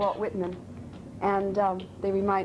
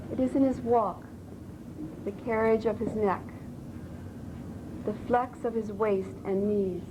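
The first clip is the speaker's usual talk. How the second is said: measured recitation with pauses between phrases; poetry reading; 2 semitones higher, slower than usual. Shown as a demonstration. Student reciting Whitman to a voice coach, measured poetry reading. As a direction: recite it line by line, deliberately.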